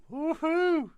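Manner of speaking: loud, very high-pitched woohoo; whooping cheer. Pretend. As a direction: let out a big mock whoop. Jokey cheer about the ex-wife.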